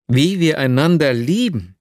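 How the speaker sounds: « Wie wir einander lieben? » tossed back as a stunned question; exclaimed. Acted. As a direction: repeat her words in disbelief, pitch rising. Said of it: "rief ich aus".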